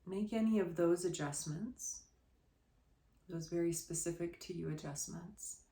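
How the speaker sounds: guided relaxation. Real, not acted. Yoga teacher settling listeners on the floor, guided relaxation. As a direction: settle them gently into the pose, quietly.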